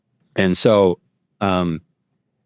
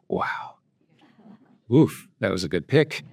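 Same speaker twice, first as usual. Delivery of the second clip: soft laugh breaking into a high giggle; 6 semitones higher, 7 dB quieter than usual. Real, not acted. Laughing at his own lucky choice of verse. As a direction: chuckle at the lucky pick.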